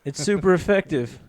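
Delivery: high, slow game battle text voice; Pokémon battle announcement. Acted. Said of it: "sound like Pokemon".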